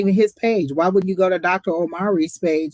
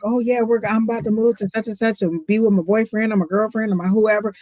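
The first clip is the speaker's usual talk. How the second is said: higher, bubbly imitation of an eager partner; mock excited; 5 semitones higher than usual. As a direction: gush about moving in, playfully. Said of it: "where you're like".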